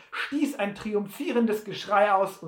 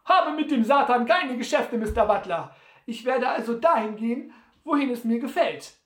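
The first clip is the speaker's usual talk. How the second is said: high, loud, quick character voice; cheeky Sam; 5 semitones higher, 5 dB louder than usual. Acted. Sam retorts to Butler's curse, high and cheeky.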